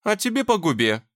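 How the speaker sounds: clipped retort. A narrator's reading. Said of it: "отчеканила Анжела".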